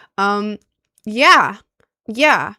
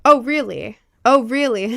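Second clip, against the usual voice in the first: fake interest; 3 semitones higher, 5 dB louder than usual. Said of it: "I was like".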